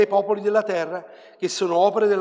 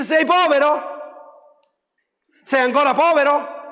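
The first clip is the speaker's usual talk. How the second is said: higher, louder teasing challenge; father teasing his son, pitched up and louder; father's triumphant taunt; 8 semitones higher, 8 dB louder than usual. Retold or imitated. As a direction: needle him with the question, like a proud father.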